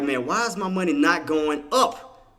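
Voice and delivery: loud, high, drawn-out complaint; retold exasperation. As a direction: replay your baffled frustration, slowly and loudly. Retells confusion over losing trade.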